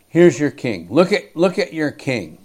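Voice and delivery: mock presentation to the crowd; a touch of Pilate's sneer; sarcastic. Pilate taunting the crowd, lightly sarcastic. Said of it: "Pilate has to be speaking sarcastically".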